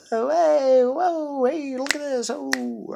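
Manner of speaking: high, jumpy, bubbly; jumpy excited voice. Shown as a demonstration. Vlogger showing off how jumpy his voice is, high and excited. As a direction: bounce up high like you can't sit still. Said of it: "I don't know why I'm talking like I'm talking".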